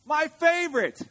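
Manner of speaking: put-on high, rising child's whine; whining. A narrator's reading. Sister Bear begging Mama for gumballs, whining. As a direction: whine it like a wheedling little cub. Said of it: "whined Sister".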